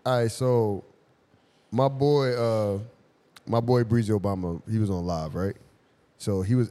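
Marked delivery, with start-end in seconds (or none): none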